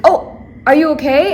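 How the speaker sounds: lightly voiced nail tech asking; quoting the nail tech. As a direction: mimic the worried nail tech. Nail tech voiced in her story.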